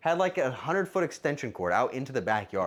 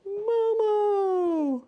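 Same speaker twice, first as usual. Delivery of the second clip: very high squeal with laughter; delighted squeal; 5 dB louder than usual. Real, not acted. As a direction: squeal her name in delight.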